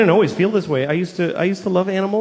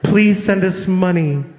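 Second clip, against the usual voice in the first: charity ad voiceover; slower than usual. Retold or imitated. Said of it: "the voice comes on".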